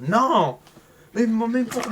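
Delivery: a sharp, high, loud no; loud refusal. Acted. Refusing the tennis idea with a loud high no. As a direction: shut the idea down hard.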